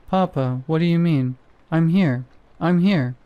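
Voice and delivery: put-on a light Russian accent, a scared child pleading; a scared boy's lines in a light Russian accent. A frightened boy answers his startled Papa, in a light Russian accent. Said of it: "Was that a Russian accent?".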